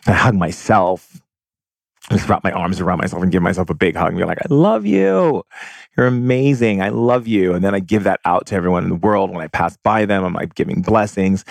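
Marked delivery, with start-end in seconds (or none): 4.4-7.5 tender self-talk. Pretend. Hugging herself, self-love.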